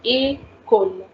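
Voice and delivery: "École" slowly, "ay ... kol"; A sound for é. Shown as a demonstration. Teacher showing why E has accent aigu, "École" slowly as ay, kol. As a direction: stretch the opening "ay" of "École". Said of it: "we need to give A sound".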